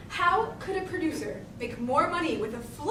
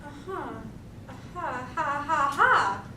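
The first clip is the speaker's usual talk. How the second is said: slow-building knowing ha-has; dawning realisation; slower than usual. Acted. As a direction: let the idea dawn, rising on the last ha. Scheme dawns on the schemer.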